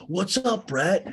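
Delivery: hearty, high, loud mock greeting; Tom. Bar owner hailing a colleague, mock hearty. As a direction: call it out high and punchy.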